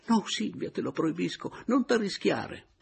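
put-on high, urgent girlish plea; excited cry. A narrator's reading. Adriana crying out to Silvia, excited high plea. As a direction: call out to stop her friend. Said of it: "le gridava eccitatissima".

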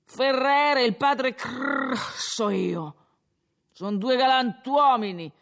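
put-on a drunk lecturing the innkeeper, pleased with himself; slurred tavern speech, rising as he goes; drunken Renzo.

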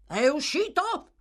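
sharp high cry of a question; shout. Acted. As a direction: call out as if checking fast. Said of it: "gridò l'ebreo".

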